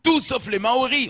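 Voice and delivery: put-on high scolding father, African accent; pleading, put-on African-accented reproach; Jean-Marie Le Pen. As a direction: lecture a daughter in a mock African accent. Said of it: "il a pris l'accent africain".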